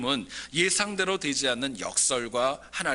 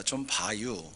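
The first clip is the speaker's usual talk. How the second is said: Chungcheong dialect; 4 semitones lower, 4 dB quieter, slower than usual. Retold or imitated. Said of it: "충청도는 또 간단합니다".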